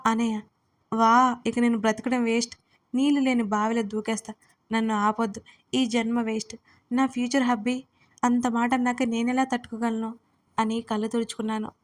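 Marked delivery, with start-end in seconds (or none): 0.9-10.1 fake crying wail. Girl fakes tears to tease her fiancé, hammed-up wail. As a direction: wail like a drama queen pretending to cry. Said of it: "ఏడుపు రాగం అందుకుంటూ".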